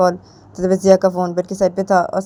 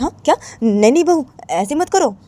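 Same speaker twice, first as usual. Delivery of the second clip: higher, urgent no; mother pleading with daughter-in-law, pitched up; worried mother; 7 semitones higher than usual. Acted. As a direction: stop her anxiously. Mother-in-law forbids on phone.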